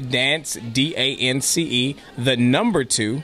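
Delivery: slowed-down spelling; a little slow. Real, not acted. Guest spelling the group's Facebook page, a little slow. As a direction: dictate it letter by letter. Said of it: "I'll say it a little slow".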